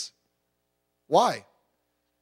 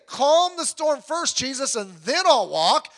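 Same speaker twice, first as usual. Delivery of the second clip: mock pleading; 7 semitones higher, 6 dB louder, slower than usual. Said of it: "He didn't say".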